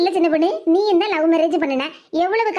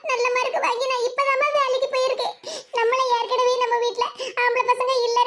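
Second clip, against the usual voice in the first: high-pitched, acted tearful protest; tearful pleading; 5 semitones higher than usual. Daughter begging mother to let her work, tearful. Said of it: "ஏன் மக்கா இப்படி அழுதுகிட்டு இருக்கா".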